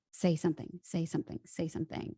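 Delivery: repeated urging fading to a whisper; inner voice urging. Retold or imitated. Her instincts urging her to speak, fading to whisper.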